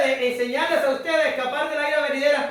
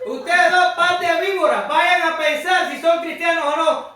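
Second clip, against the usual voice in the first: louder, higher scolding; mock preacher rebuke; 3 semitones higher, 6 dB louder than usual. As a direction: scold the kids like John the Baptist, half joking. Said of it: "a Martín Junior le diga". (regaño fingido a los hijos, voz más fuerte)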